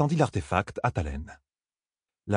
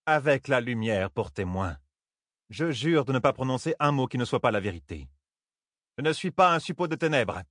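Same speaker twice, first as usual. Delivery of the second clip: measured, ceremonial vow rising in pitch; solemn oath; 4 semitones higher than usual. A narrator's reading. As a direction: swear it gravely, building to a firm denial. Serment solennel prêté sur le bâton. (serment solennel et posé)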